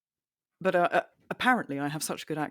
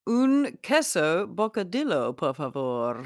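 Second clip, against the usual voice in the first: Spanish accent; 3 semitones higher, 4 dB louder, slower than usual. Shown as a demonstration. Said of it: "Do it".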